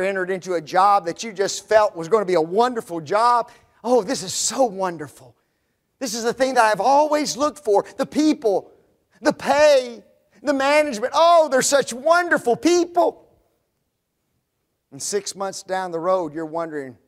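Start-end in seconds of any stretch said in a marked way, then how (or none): 3.8-13.3 a mock-giddy new employee, lightly higher; gushing. New worker gushing about a wonderful job, giddy. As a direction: rave about the dream job.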